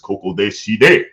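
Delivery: slow game-villain imitation; lightly voiced fighting-game character, drawn out; Kazuya Mishima. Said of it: "talking to him like Kazuya Mishima".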